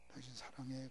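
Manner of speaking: hushed whispered love. Retold or imitated. Husband whispering to his sleeping wife, hushed. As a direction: whisper so as not to wake her. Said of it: "아내가 잠자길래 들어가서".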